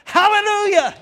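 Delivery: high, loud cry of praise; exultant hallelujah. Real, not acted. Pastor crying praise to the congregation. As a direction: lift it up in praise. Exclaiming praise mid-sermon.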